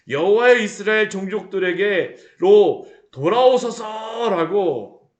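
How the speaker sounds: slow, loud, solemn cry; Moses crying out. Acted. Moses cries out to the Lord, slow and loud. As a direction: call it out slowly like a prophet. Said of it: "외칩니다".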